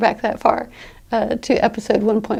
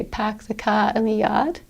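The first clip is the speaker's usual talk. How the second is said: "pack the car in the yard" with dropped R's, Boston style; teacher demos the Boston accent, car and yard with no R; 5 dB quieter than usual. Shown as a demonstration. Teacher contrasting Boston speech with standard, Boston accent without R's. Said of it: "in a Boston accent they say".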